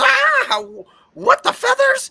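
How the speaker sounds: very high, slow, drawn-out queenly harpy creature voice. Voicing the harpy, grabbed and crashing to the ground: harpy queen voice. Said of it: "She goes".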